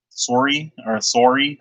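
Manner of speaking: Canadian "sorry" as "sore-ee"; questioning Canadian "sorry" demo; Canadian accent. Shown as a demonstration. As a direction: try out a Canadian rounded O in "sorry". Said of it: "however they say it".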